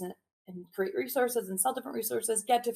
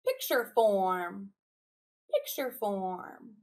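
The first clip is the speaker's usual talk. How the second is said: slow call and echo; much slower than usual. Shown as a demonstration. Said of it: "I'll say it, you respond".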